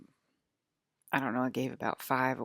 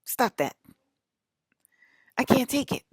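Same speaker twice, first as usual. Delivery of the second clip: mock anguished plea; 8 semitones higher, 6 dB louder than usual. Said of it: "they're like".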